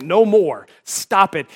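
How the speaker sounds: a hint of a stern parent; lightly voiced firm parent, stop it; authoritative parent. Parent scolding kids in the back seat, mildly stern. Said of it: "communicated in an authoritative tone".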